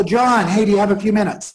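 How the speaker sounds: eager, upbeat greeting; excited, fired up. Shown as a demonstration. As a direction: sound fired up from the first word. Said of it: "with the excitement in my voice".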